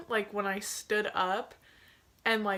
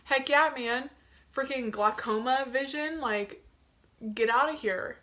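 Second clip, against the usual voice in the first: pumped up; 4 semitones higher than usual. Retold or imitated. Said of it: "I was like".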